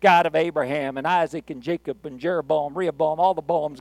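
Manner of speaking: mock fancy prayer, running the names together. Faith healer starts praying before the crowd, mock fancy prayer. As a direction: roll through the names like a showy preacher. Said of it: "one of them fancy prayers".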